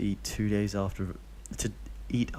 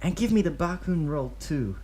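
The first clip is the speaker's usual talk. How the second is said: high, put-on voice placing an order; character voice ordering; 8 semitones higher, 4 dB louder than usual. A narrator's reading. Obito ordering food for Deidara, high put-on voice. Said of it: "and gives".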